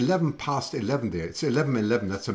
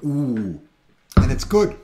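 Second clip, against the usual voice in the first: delighted; 7 dB louder, slower than usual. Real, not acted. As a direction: relish the first sip. Tasting the wine.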